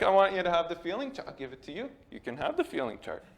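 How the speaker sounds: mock-gentle counselor, fading to a hush; hammed-up counselor. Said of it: "He didn't talk like this".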